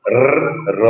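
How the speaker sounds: র tapped with the tongue tip behind the teeth; dental r demo. Shown as a demonstration. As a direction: tap র lightly, tongue tip to gum. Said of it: "সেটা হচ্ছে র". (জিভের ডগায় র)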